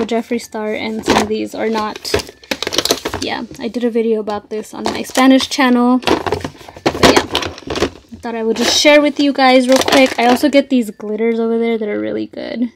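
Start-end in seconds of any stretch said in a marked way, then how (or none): 6.0-12.7 breathless, rushing through the words; out of breath. Real, not acted. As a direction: talk while short of breath. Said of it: "You guys, I'm out of breath".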